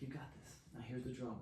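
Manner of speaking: low, soft encouragement; quiet reassurance. Retold or imitated. Facilitator handing over the drum, quiet reassurance. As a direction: drop right down to steady a nervous friend.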